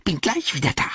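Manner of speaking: high creature voice; Gollum voice. Acted. Gollum calling back while leaving, high and sly. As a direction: chirp it as you scuttle off.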